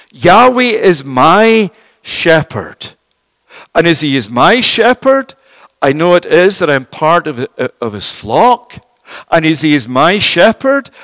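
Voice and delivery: David declaring his faith for himself; emphatic personal confession. Acted. Preacher voicing David's confession with deliberate emphasis. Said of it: "David is emphatically personal here".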